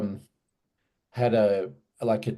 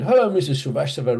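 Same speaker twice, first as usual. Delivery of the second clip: Cockney tailor; 4 semitones higher, 4 dB louder, faster than usual. Retold or imitated. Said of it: "really Cockney".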